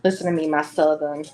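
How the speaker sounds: mild Southern lilt on "Southern Gothic"; Southern accent. Real, not acted. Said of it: "My Southern girl accent's coming out".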